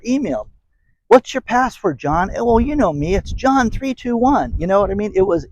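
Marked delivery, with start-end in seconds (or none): 1.1-2.3 high, sing-song mock question; mocking a clueless coworker. Staffer casually asks a colleague for his password, high mock voice. 2.3-4.5 mock careless employee. Mock reply in imagined exchange.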